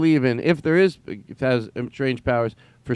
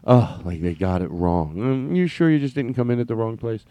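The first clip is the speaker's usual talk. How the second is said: condescending singer impression. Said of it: "you can hear it in his voice".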